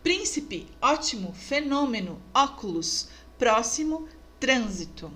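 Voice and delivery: príncipe, ótimo, fenômeno, óculos, próximo, trânsito, each stressed third from last; stress on antepenultimate syllable. Shown as a demonstration. Teacher listing proparoxítonas, antepenultimate stress in príncipe through trânsito. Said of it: "proparoxítonas".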